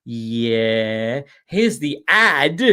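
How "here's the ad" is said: ad volume blast. Shown as a demonstration. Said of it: "here's my volume level".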